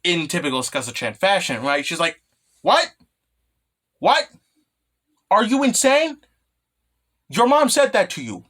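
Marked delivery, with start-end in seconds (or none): 2.6-8.4 high, loud incredulous shout; outraged yell. Retold or imitated. Skasa-chan aghast at Kaname's mom's advice, loud incredulous shout. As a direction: blast it back in disbelief.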